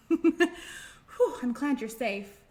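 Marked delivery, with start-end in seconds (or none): 0.1-0.4 relieved whew. Acted. Fly nearly falls, relief.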